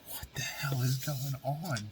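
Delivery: slow, high breathy whisper; bewildered whisper. Retold or imitated. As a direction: whisper it in confusion to yourself. Confused brother alone in hallway.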